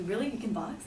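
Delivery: softly voiced mock whisper; imitating a whisper. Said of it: "she kinda whispers to me".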